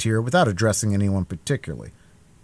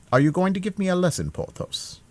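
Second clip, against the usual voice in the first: indignant cry; 8 semitones higher than usual. A narrator's reading. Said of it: "cried Aramis".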